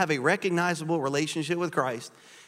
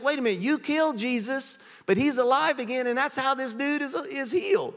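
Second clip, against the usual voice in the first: bold Peter; 9 semitones higher than usual. Acted. Peter boldly confronting Jesus' killers.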